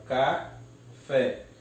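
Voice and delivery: "café" split slowly into ca, fé; syllable by syllable. Shown as a demonstration. Teacher separates the word, "café" syllable by syllable. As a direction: break "café" with a pause before fé. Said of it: "eu separo".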